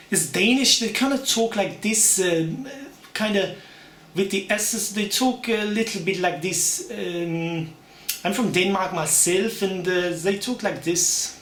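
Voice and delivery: Danish accent with marked S's. Shown as a demonstration. Posing as someone from Denmark, Danish accent. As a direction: talk like a Dane speaking English.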